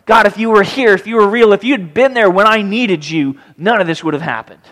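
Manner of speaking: mildly acted accusing cry to God; accusing prayer. Believer blaming God for not being there, accusing. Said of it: "We say that again in our minds".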